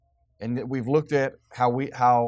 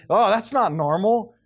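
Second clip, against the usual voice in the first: higher, louder, slow "Oh, that's NOT normal"; mock shock; 7 semitones higher, 5 dB louder than usual. Preacher mocking the world's shocked reaction, hammed-up and loud. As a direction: ham up the shocked gasp, stretching not.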